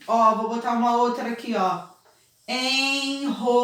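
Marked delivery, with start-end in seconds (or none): 2.5-3.6 Enrolar drawn out slowly with a strong rolled R at the start; teacher slowly sounding out Enrolar. Shown as a demonstration. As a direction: stretch Enrolar and make the first R strong. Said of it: "Olha quanto R eu coloquei".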